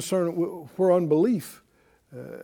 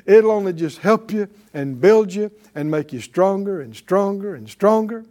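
normal talking voice

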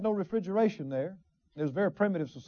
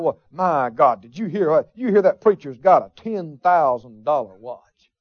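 gossiping busybody; 8 semitones lower than usual. Retold or imitated. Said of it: "you hear people talking about".

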